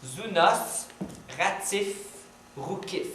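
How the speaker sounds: chaque mot posé seul avec une pause; détache zounos, ratif, roukif un par un; mots détachés. Shown as a demonstration. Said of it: "Écoute bien". (mots lus lentement et détachés)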